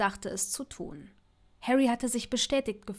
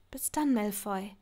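soft hushed goodbye; Hermine's tender whispered goodbye; 3 dB quieter than usual. Acted. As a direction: breathe the farewell into the phone.

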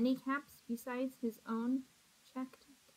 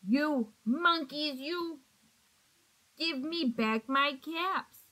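mild angry scold; 2 semitones higher than usual. Acted. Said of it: "This made the peddler angry".

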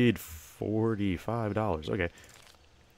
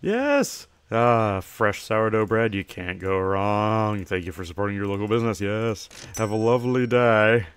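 cheery shopkeeper; 5 dB louder than usual. Acted. Shopkeeper hailing a customer entering the store, cheery and loud. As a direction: welcome customers like an eager shopkeeper.

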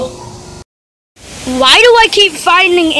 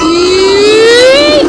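loud yelled yeet, a bit less high; excited yeet; 6 semitones higher, 5 dB louder than usual. Real, not acted. Vlogger repeating the cheer for the ride, loud yell. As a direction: toss it out again, joking along.

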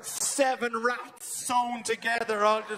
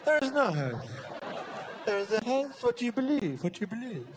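magician patter. Retold or imitated. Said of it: "David Copperfield ... just going".

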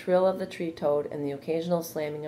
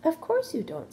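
high, gliding reassurance; comforting; 14 semitones higher than usual. A narrator's reading. Charlotte reassuring frightened Wilbur, in a comforting voice. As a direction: soothe a frightened youngster. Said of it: "comforting voice".

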